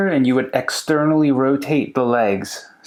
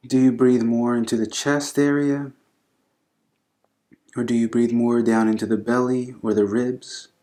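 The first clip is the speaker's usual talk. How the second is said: calm, unhurried yoga instruction with long pauses; guided breathing meditation. Acted. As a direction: gently guide them through the breath, leaving space between phrases.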